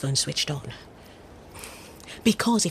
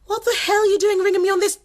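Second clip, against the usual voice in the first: angry hiss; 14 semitones higher, 3 dB louder than usual. Acted. Angry at caller on secret phone.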